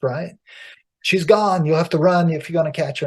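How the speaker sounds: high, loud, scatterbrained old hag, playing dumb; high rambling old hag. Old river hag misleads the river demon, high loud feigned confusion.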